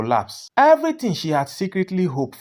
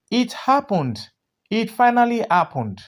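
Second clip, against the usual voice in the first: thrilled, bursting with joy; excited, laughing; 6 semitones higher than usual. A narrator's reading. Friend bursting into the bakery, thrilled and laughing. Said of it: "Fumi laughed even louder".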